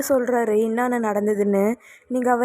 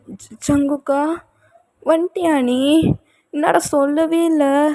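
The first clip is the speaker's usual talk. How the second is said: stunned joy; 4 semitones higher than usual. Acted. Wife recognises husband at last.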